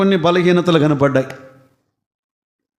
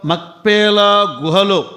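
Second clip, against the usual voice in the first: ordinary talk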